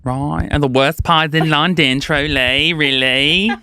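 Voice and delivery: drawn-out put-on Cockney; exaggerated Cockney chat; Cockney accent. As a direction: play a Londoner in Cockney. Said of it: "do it in that accent".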